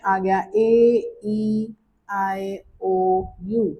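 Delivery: vowels named slowly for the class; slow vowel-by-vowel recital; vowel letters said slowly one by one. Shown as a demonstration. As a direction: spell out each vowel, drawn out and slow. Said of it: "French में भी वही है".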